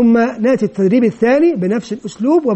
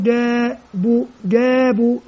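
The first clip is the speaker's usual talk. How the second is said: جابوا drawn out slowly syllable by syllable; slow blending demo; slower than usual. Shown as a demonstration. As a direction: stretch جابوا slowly like a teacher. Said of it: "عندما أتهجى مثل هذه الكلمات". (نطق جابوا ببطء ومد)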